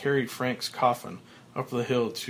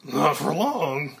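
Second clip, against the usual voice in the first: smug threat; 3 semitones higher, 5 dB louder, slower than usual. Acted.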